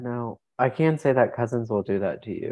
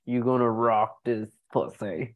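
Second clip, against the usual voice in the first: slow, lightly voiced older smoker; heavy smoker. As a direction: mimic a two-pack-a-day woman's come-on. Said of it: "So she sounded like this".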